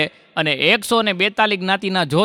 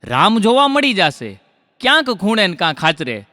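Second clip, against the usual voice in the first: lifted line openings, falling rhyme endings; poetry recitation. Acted. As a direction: declaim rhymed couplets to a crowd. Recites rhymed verse to audience.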